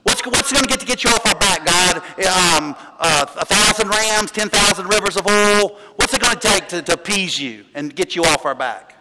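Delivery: imitated exasperated haggling with God; mock put-upon complaint; grumbling complaint. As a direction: gripe like a fed-up people making offers. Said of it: "That's how I read it".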